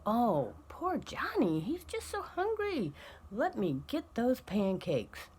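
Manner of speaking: mock-doting mother; pitying parent. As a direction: coo over the poor baby. Pushover parent pitying child.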